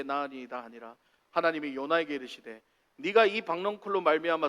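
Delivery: measured formal Bible reading; solemn, evenly phrased recitation; scripture reading. Acted. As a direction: read the passage aloud for the congregation. Reads scripture aloud to congregation.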